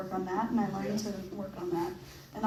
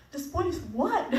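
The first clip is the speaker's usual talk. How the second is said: mock confused; 8 semitones higher, slower than usual. Baffled reply to the airport lady.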